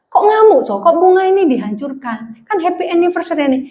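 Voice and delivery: a husband staring at smashed flowers; shocked husband. Acted.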